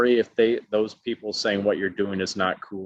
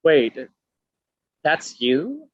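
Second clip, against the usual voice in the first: much higher, louder mock double take; surprised; 6 semitones higher, 6 dB louder than usual. Cheerleader realizing he is on Netflix, mock surprised and high. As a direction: play her dawning shock big.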